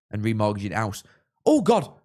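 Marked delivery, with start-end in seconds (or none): 1.5-1.9 loud, high yelp of alarm; alarmed outburst. Real, not acted. Host alarmed by dodgy defending, loud high yelp. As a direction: blurt it out in sudden alarm.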